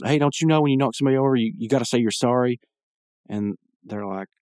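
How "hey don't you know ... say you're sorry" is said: higher, rushed indignant complaint; mild mock yell, tumbling out fast; Mordecai yelling. Guy demanding an apology from the punks, imitated yell. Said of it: "he yells".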